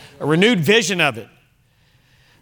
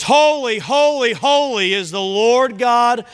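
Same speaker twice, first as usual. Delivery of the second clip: crying out; 3 semitones higher than usual. Acted. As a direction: proclaim each holy upward like the creatures. Creatures cry out in Revelation.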